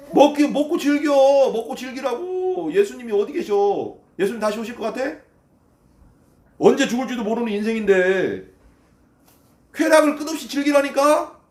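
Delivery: acted taunting exhortation; worldly tempter. Preacher voices the tempting world.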